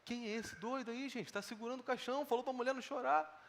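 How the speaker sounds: gossiping murmur. Retold or imitated. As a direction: whisper it to the person next to you. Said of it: "as pessoas pensando isso".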